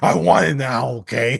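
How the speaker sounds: put-on rough, irate, angry and insistent voice. Retelling how a hungry customer complained about his pizza: imitating an angry customer. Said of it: "that's what he kept saying".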